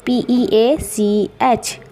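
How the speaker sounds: very slow letter-by-letter spelling. Shown as a demonstration. Teacher spells peach for students, very slowly. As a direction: space out every letter like dictation. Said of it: "आड़ू को English कहते हैं पीच".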